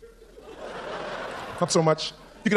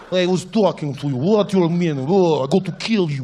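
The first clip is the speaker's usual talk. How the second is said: put-on Russian accent; 4 semitones lower than usual. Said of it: "whatever they say sounds dangerous".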